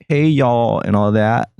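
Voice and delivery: put-on drawn-out Southern drawl through a Jersey accent; mock Southern drawl. Jersey patient teasing a Southerner, mock Southern drawl. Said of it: "like, drawl they say that you talk".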